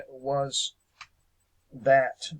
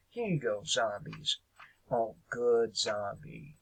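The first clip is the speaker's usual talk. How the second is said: mock coaxing, a little softer and lower; sarcastic; 3 semitones lower, 5 dB quieter than usual. Host pretends to feed zombies meat scraps, sarcastic. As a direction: toss it out sarcastically, as if feeding pets. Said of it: "my, my sarcasm".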